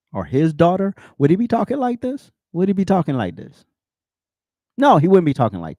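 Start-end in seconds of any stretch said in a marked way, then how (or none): 1.2-3.6 incredulous. Real, not acted. Repeated rhetorical question.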